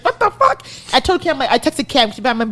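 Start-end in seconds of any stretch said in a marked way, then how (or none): 0.0-0.6 mock disbelief.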